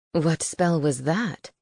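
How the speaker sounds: curious low owl; owl familiar voice. A narrator's reading. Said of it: "Sedgwick asked".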